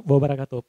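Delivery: "wabarakatuh" said with deliberate weight; stress on WABARAKATUH. Shown as a demonstration. Trainer pointing out the stressed word, weighted "wabarakatuh". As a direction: press on "wabarakatuh". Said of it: "Ditekan waktu war".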